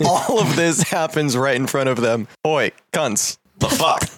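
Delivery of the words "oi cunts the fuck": a light Aussie-English general's growl of surprise; lightly voiced English accent with Aussie slang; Australian-English accent. Generals react to the chaos in a light English accent. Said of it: "He has an Australian vernacular and an English accent".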